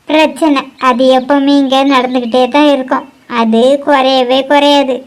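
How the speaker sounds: low-pitched, bitter grumbling; angry complaint, slowing at the end; stern anger. Acted. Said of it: "கோவப்படாதுங்க அத்தை".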